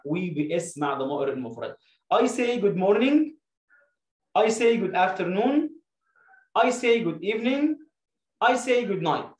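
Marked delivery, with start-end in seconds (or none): 2.1-9.3 slow drill. Shown as a demonstration. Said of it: "الأغنية جايبة لي الدرسين".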